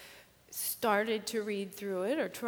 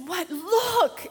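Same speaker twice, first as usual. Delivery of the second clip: put-on high little-girl call to look; excited child; 9 semitones higher, 7 dB louder than usual. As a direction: point it out like a thrilled kid. Child points out the wreath.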